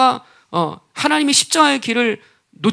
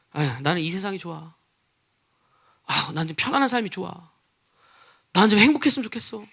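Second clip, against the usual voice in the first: softer, lower acted wishful aside; reluctant excuse; 4 semitones lower, 6 dB quieter than usual. Worldly believer turning from the cross, quietly reluctant. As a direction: play a comfort-seeker quietly backing away. Voices worldly listeners preferring comfort.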